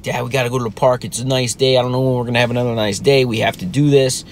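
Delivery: rapid-fire imitated pleading; nagging kid. Son bugging dad about the park, quick retold nagging. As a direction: rush it, pestering Dad without a break. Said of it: "He was bugging me".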